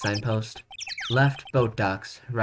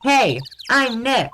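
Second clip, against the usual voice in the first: higher, slow called-out introduction; drawn-out, high-pitched hail; louder retry; 9 semitones higher, 3 dB louder, much slower than usual. Acted. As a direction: call it out to set off a microphone. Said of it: "maybe I'm not saying it loud enough".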